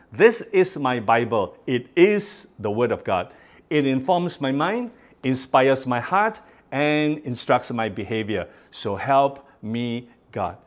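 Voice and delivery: congregation reciting together; many voices in unison. Shown as a demonstration. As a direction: read it aloud as one. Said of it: "two, go".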